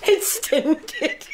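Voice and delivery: high, laughing through the punchline; helpless laughter at the baby story. Acted. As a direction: giggle the punchline out. Nurse laughing retelling the joke.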